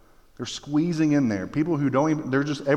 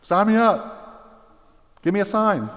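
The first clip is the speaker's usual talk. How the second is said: high, loud comic yelling; mock angry rioter; 5 semitones higher, 3 dB louder than usual. Rioters yelling without knowing why, comic shouting. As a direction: ham up a clueless angry mob. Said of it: "they don't even know why".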